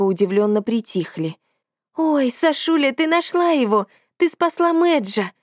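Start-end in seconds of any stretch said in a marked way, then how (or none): 2.0-5.3 put-on high, excited girlish babbling; delighted babble. A narrator's reading. Танюсик gushes at Sasha over the found dog, high and delighted. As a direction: gush over the rescued dog. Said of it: "восхищённо залепетала Танюсик".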